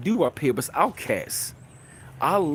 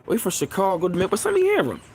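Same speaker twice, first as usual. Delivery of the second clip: eager; 6 semitones higher, faster than usual. Retold or imitated. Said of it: "I'm like".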